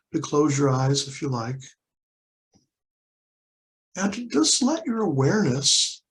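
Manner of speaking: unhurried guiding voice with long pauses; guided meditation. Real, not acted. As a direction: lead listeners gently into noticing, leaving space between phrases. Leads a guided body-scan meditation.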